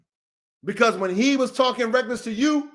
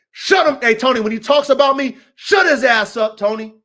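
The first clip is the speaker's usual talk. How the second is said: forceful order; 6 dB louder than usual. Real, not acted. Ordering Tony loudly.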